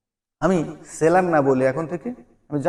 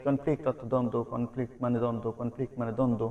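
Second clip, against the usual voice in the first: rote memorizing; 2 semitones lower, 6 dB quieter than usual. Shown as a demonstration. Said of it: "আমরা তো শুধুই মুখস্থ করি".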